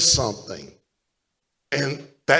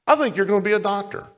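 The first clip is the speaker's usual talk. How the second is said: quick, offhand, just tossed out; casual offhand; 5 semitones higher, faster than usual. Shown as a demonstration. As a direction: say it lightly, no weight. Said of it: "I just said it like that".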